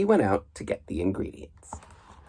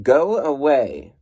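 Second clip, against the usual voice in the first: slow, louder stern bear; 4 semitones higher, 5 dB louder, slower than usual. Acted. Reader voicing Bruce scolding goslings, slow and stern. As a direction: firmly shoo them off. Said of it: "Bruce was very stern".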